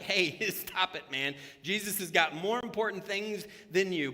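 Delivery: crowd telling him to shut up, laughing; loud mock scolding with a laugh; loud laughing hush. Crowd scolding the roadside beggar, loud and laughing. Crowd shushing the blind man.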